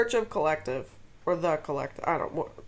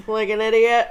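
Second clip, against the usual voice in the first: laughing; 2 semitones higher, 4 dB louder than usual. Real, not acted. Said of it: "I'm just laughing at you".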